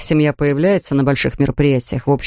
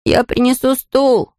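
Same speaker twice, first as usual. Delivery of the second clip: higher, slow call from afar; called from the kitchen; 7 semitones higher, slower than usual. Acted. Kelvin shouts from the kitchen, higher slow call. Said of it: "крикнул из кухни Келвин".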